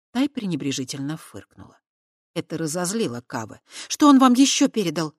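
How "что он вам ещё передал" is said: high, loud challenging ask; defiant question. Acted. Kava defiantly challenging Chernozub, loud and high. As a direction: throw the question at him. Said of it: "вызывающе спросила она".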